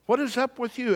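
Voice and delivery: very high-pitched, incredulous question; hammed-up baffled king at wit's end; escalated mock exasperation. Acted king's repeated, escalated question.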